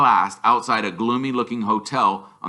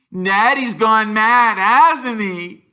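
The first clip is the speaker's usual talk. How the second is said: dull question; 12 semitones higher, 8 dB louder, much slower than usual. A narrator's reading. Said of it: "Dudley asked Aunt Petunia dully".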